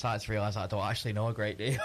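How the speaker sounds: laughing admission. Real, not acted. Quiz contestant admitting they know little, laughing. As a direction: confess it fast, then crack up.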